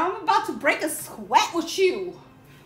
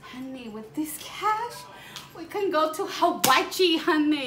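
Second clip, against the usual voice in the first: lightly voiced sassy queen; sassy drag queen; 3 semitones higher, 4 dB louder than usual.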